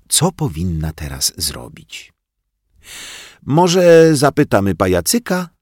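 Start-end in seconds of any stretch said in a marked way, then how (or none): 3.4-5.5 put-on higher, louder eager kid voice; little boy suggesting they ask the puppet; boy's suggestion. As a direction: pipe up with an idea. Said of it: "podpowiedział Rafałek".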